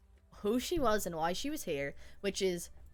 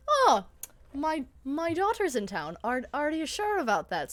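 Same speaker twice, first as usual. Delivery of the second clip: mock surprised; 3 semitones higher than usual. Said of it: "And Bonnie was like".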